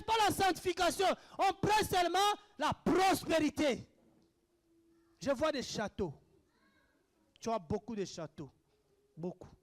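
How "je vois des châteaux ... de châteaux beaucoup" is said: low, soft, spaced-out pronouncement; mock prophetic murmur. False prophet promising castles to a believer, mock prophetic murmur. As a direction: sink lower and quieter, parodying a visionary. Mimics a prosperity prophet's vision.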